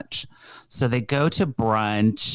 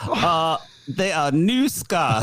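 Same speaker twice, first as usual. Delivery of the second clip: put-on British accent; 4 semitones higher, slower than usual. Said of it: "British or whatever accent".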